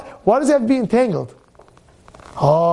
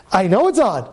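usual speaking voice

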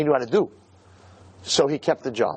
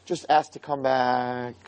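tender plea; 4 semitones lower, 3 dB quieter, slower than usual. Acted. Plea repeated softly after the shouting.

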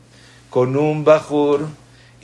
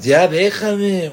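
slow, higher mock dismissal; arrogant brush-off; 5 semitones higher, much slower than usual. A rude person snubbing the rabbi, mock haughty.

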